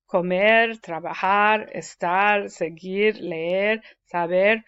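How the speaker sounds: "Comer, trabajar, estar, seguir, leer, saber", each stressed on its final syllable; end-stressed "Comer, trabajar, estar, seguir, leer, saber", spoken as separate examples; stress on last syllables. Shown as a demonstration. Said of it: "then you stress the last syllable".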